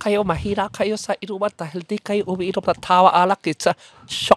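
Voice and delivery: high-pitched put-on Chinese accent on every word. Reading out a listener's shout-out request to tease two friends: Chinese accent. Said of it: "pakimura in Chinese accent".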